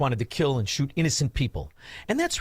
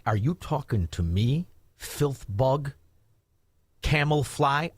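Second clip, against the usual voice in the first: tough-guy challenge; 3 semitones lower, slower than usual. Retold or imitated. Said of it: "everybody with an I Q over sixty says".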